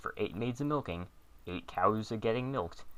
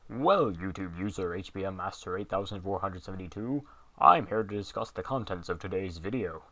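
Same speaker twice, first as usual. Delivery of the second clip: a hint of a booming president; puffed-up presidential voice, lightly done; deep booming Lincoln voice; 2 semitones lower than usual. Fake Lincoln greeting a YouTuber, lightly booming. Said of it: "That deep, booming voice".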